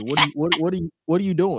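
exasperated disbelief. Retold or imitated. Retold baffled reaction to dancing.

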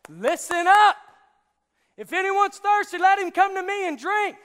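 high, full-force shout to a crowd; Jesus. Acted. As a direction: grab the whole crowd with a yell. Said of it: "Jesus told a crowd a lot like this".

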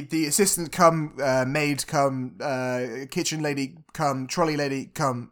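normal talking voice

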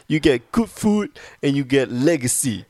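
high-pitched, hammed-up street hustle; Boston guy impression. Impersonates Boston guys from documentary.

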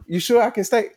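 high mock voice of a pushy drunk stranger; imitating the drunk guy. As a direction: play the drunk who won't leave. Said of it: "first he was trying to stay for a minute".

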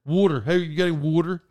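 "water" said the Pittsburgh way; Pittsburgh pronunciation. Retold or imitated. Host imitating how people in Pittsburgh ask for water, regional pronunciation. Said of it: "a lot of people say it in Pittsburgh".

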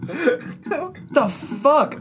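warped, slowed underwater gurgle; as if talking underwater; drowning. Real, not acted. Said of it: "It sounds like I'm drowning".

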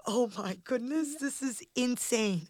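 slow amazed whisper. Retold or imitated. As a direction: whisper it in disbelief. Retelling her amazed reaction.

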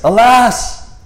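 high, loud mock-terrified cry; hammed-up alarm. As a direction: play Gideon as a comic wail of dread. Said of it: "he says something hilarious".

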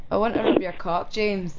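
lightly Scottish, put on for a request; Scottish accent. Shown as a demonstration. Guest obliging a caller on the spot, Scottish accent. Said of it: "say something in a Scottish accent".

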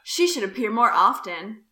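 John voice. Acted. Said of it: "Should I do a voice for this?".

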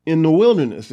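angry. Retold or imitated. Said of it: "he gets angry".

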